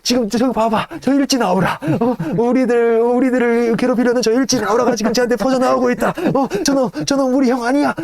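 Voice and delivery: high, rising hysterical ranting; a hammed-up anxious tyrant; paranoid rant. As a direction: work yourself into a frenzy. Franz ranting at servant.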